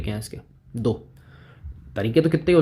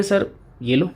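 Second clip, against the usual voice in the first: lightly voiced student, pitched higher; छात्र की नकल; 5 semitones higher than usual. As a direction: put a student's question to the teacher in a higher voice. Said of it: "अब आप कहोगे". (छात्र बनकर हल्की ऊँची आवाज़ में सवाल)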